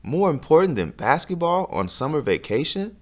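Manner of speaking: disbelief. Acted. Carl disbelieving.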